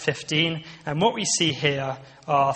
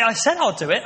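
higher and louder, snapping back; irritated retort; 6 semitones higher, 7 dB louder than usual. Retold or imitated. Husband snapping at his wife's reminder, annoyed and louder. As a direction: bristle at being reminded twice. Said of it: "And I get really annoyed at her".

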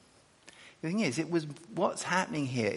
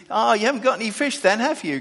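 high, loud, fast ribbing with tag question; high, fast banter from the shore; teasing question; 9 semitones higher, 8 dB louder, faster than usual. Shown as a demonstration. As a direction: tease them knowingly about the empty net.

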